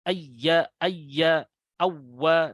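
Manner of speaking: ayya, ayya, awwa, doubled letter held clearly; drilling the doubling. Shown as a demonstration. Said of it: "harus jelas ya".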